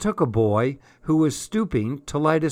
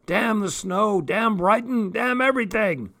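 curses rising higher in pitch, bitter and fed up; bitter cursing; 9 semitones higher than usual. A narrator's reading. Tramp cursing the snow and Brighton, bitterly. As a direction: spit out the damns at the world.

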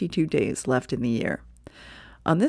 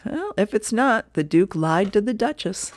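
slightly higher, wry Viking voice; Hagar's reply; 4 semitones higher than usual. Acted. Hagar answering his wife about the necklace, lightly voiced and wry. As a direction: deliver the punchline with a shrug.

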